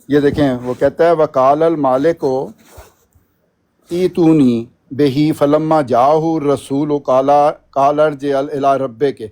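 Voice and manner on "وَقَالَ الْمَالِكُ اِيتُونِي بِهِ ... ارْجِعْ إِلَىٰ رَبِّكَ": a touch of recitation, read out in Arabic; تلاوت کے انداز میں; Quran recitation. Shown as a demonstration. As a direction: read the verse in a light recitation style. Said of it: "اب میں ایک آیت پڑھتا ہوں".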